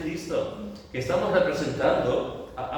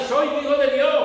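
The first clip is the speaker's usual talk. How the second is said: high, loud shout; 12 semitones higher, 7 dB louder than usual. Shown as a demonstration. Preacher acting out shouting in the streets, loud. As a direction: cry it through the streets. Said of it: "deberíamos de salir de aquí gritando".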